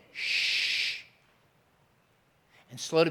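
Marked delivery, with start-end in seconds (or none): 0.1-1.0 whispered shh; hushing. Retold or imitated. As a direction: hush them. Hushing the interrupter.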